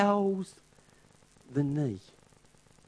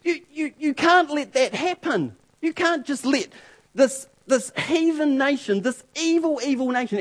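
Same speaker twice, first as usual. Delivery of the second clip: higher, urgent pleading; stammering, high appeal; pleading protest; 5 semitones higher than usual. Retold or imitated. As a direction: beg God to stop it. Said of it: "He says, he says".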